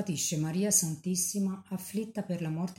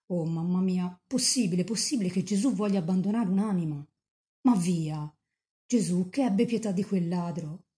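fervent pleading. Acted. A young saint begging the Virgin not to abandon a sinner, fervent. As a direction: plead passionately for the soul.

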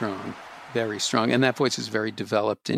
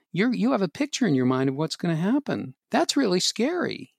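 a gently higher, soothing parent voice; role-playing a parent; 6 semitones higher than usual. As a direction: talk to your child as the comforting parent. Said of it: "Did you just do your own role play?".

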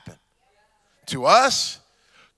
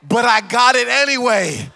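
gloating laugh; 2 semitones higher than usual. Retold or imitated.

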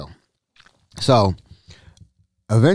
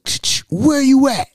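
wife calling out; 12 semitones higher than usual. Retold or imitated. Wife bursts in looking for him.

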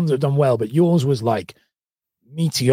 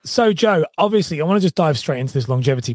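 talking through a hoarse throat; rough, worn-out hoarse voice; 5 semitones higher than usual. Real, not acted. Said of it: "I've got a really hoarse voice".

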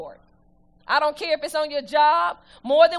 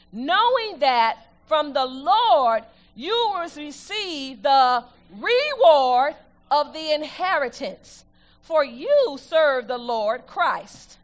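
measured, slow reading of the verse; slow solemn scripture reading; much slower than usual. Acted. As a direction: read each phrase deliberately to the church.

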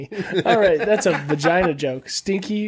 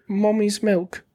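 creepy British accent, higher pitched; 4 semitones higher, much slower than usual. Shown as a demonstration. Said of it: "isn't it creepier when you".

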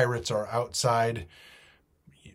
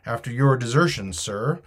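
"desertion" said louder than the rest; stress on DESERTION; 6 dB louder than usual. A narrator's reading. Silver needles the captain, stress on "desertion". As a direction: lean hard on the word "desertion". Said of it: "laying a particular emphasis upon the word".

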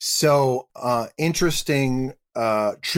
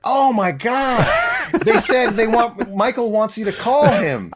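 high, louder, breaking into a laughing wail; panicked friend; 10 semitones higher, 4 dB louder than usual. Retold or imitated. Friend on the phone realising the mix-up, in mock panic. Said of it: "He's being very kind of tentative with me".

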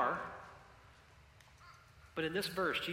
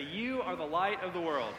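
louder, aimed straight at a neighbor; pointed declaration; 2 semitones higher, 4 dB louder than usual. Shown as a demonstration. Pastor having people declare it to a neighbor, bold. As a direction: tell him boldly. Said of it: "point at him and say".

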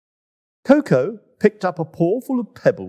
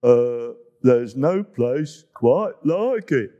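mumbling hippo; 4 semitones lower, slower than usual. Acted. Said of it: "mumbled Boo Hoo".

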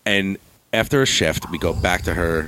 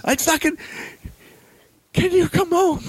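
much higher, pleading and exasperated; stuck far from home and fed up; frustrated son. Retold or imitated. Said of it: "I go".

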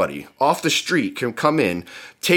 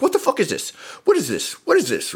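high, whiny mock outrage; mocking the whiner; 9 semitones higher than usual. Mocking an Instagram guy complaining about a document, high and whiny. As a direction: mimic a complaining soy boy, pitched way up. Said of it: "and he's like".

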